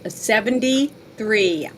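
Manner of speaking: slow, words round a piece of candy; chewing while talking. Real, not acted. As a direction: chew candy as you speak. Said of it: "sorry, I'm chewing my candy".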